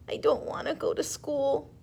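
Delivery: high little voice, tearful; a small child begging through tears; crying child. Acted. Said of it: "and cried".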